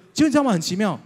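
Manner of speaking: excited. Real, not acted. Excited buildup to the story.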